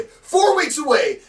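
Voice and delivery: high, slow, booming repeat; shouted hype. Acted. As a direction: stretch it out in a high-pitched shout. Hyping the show, repeated bigger.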